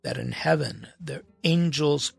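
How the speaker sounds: deliberate pulpit reading of Matthew; scripture reading. Acted. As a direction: read the Gospel aloud to the congregation. Reads scripture passage aloud.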